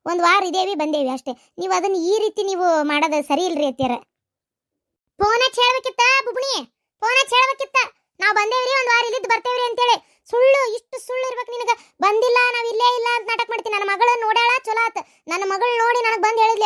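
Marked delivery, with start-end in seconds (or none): 5.2-16.6 high-pitched, accusing tirade; indignant scolding. Acted. Mother-in-law accusing daughter-in-law of lying, indignant scolding.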